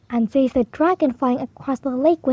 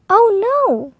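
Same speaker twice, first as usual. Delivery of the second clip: dismayed oh no; 8 semitones higher, 3 dB louder than usual. A narrator's reading. Knight finds lady gone.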